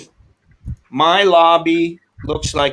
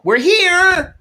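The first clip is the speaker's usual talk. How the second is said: much higher, louder chirpy driver; mock driver voice; 5 dB louder than usual. Driver quoted announcing arrival.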